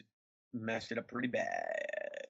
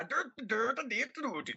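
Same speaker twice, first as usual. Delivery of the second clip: mock Swedish; 11 semitones higher, slower than usual. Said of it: "That sounded Swedish".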